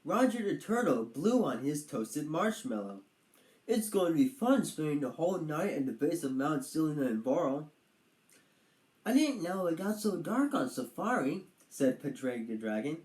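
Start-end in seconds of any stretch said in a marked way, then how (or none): 3.7-7.7 a hint of an eager young turtle; lightly played chipper turtle voice; Roger the turtle. 9.0-11.5 a touch higher, lightly voiced dragon; gentle dragon, a little wondering; lightly played timid dragon; Padraig the dragon.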